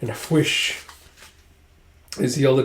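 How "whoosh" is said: airy, voiceless whoosh; whoosh sound. Retold or imitated. Narrator adds a sound effect to the recap, airy whoosh. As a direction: imitate a rush of air.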